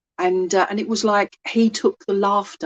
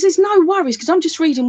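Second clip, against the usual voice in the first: cheerful spirit voice; 8 semitones higher, 4 dB louder than usual. Retold or imitated. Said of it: "But he says".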